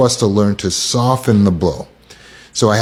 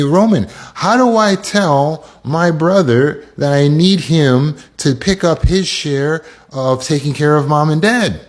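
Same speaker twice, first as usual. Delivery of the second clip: client's plea; 5 semitones higher than usual. Retold or imitated. Voices a client asking for help.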